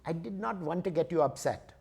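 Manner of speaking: lightly voiced Indian accent, measured; understated reply with a hint of Indian accent; Indian ticket clerk. Indian clerk answers angry traveler, light Indian accent. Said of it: "So there's this guy".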